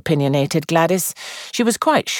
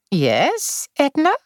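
encouraging; 12 semitones higher, slower than usual. A narrator's reading. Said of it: "said Miss Marple encouragingly".

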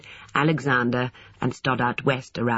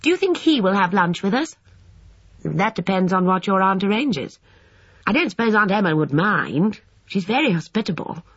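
put-on high boyish voice, earnest and chatty; chatty schoolboy; 6 semitones higher than usual. A narrator's reading. Voices the boys and a reply.

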